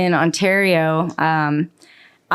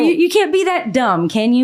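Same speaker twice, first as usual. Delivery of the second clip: high, disbelieving question; mocking people who defend the heckler, incredulous; 5 semitones higher than usual. Real, not acted. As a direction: ask it as if you can't believe it. Incredulous at critics.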